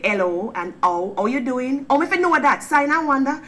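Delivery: animated Jamaican accent demo; Jamaican, dropped Hs. Shown as a demonstration. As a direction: burst into broad Jamaican, dropping every H. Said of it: "We drop our Hs".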